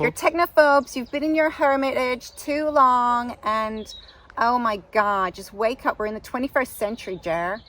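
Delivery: hammed-up American talking-to; bad American accent. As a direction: chide a friend in a mock American accent. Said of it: "A very bad American accent".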